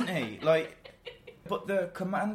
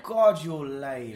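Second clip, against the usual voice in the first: scornful; 4 dB louder, much slower than usual. Retold or imitated. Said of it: "And it's like".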